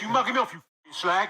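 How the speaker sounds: mock Essex aggro; Essex accent. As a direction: put on a cocky Essex accent.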